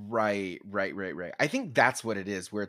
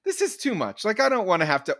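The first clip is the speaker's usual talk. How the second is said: high complaining voice; 8 semitones higher, 4 dB louder, faster than usual. Retold or imitated. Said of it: "I say to this other voice".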